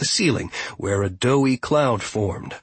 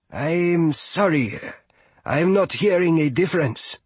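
lightly voiced, higher apologetic character; apologetic young visitor; 6 semitones higher than usual. Fia apologises to the steward, politely puzzled. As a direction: confess confusion politely.

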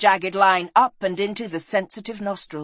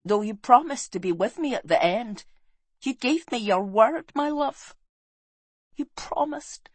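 plaintive inner thought; 4 semitones higher than usual. A narrator's reading. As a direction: reproach an absent love tenderly, climbing in pitch and fading in volume. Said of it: "she thought".

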